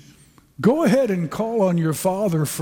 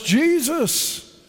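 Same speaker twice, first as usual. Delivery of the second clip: high, slow pleading cry; a lightly voiced beggar pleading; crying out for mercy; 3 semitones higher, slower than usual. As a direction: beg like a blind beggar calling out. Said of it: "what he cried out was".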